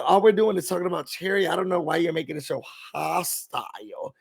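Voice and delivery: quick, then trailing very soft; mock her dismissive innocence; mimicking Shamia. Retelling Shamia downplaying the fight, quick and hushed. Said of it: "She said".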